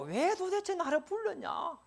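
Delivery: high, slow demanding king. Acted. Preacher voicing the king asking Esther why she called him, high and slow. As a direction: press her like an impatient king.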